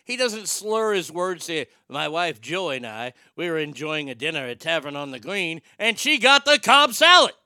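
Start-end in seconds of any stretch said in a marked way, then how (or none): 1.9-7.3 lightly voiced Regis telling a dinner story; Regis Philbin impression. Showing how clearly Regis talks, light impression. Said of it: "the thing with Regis is".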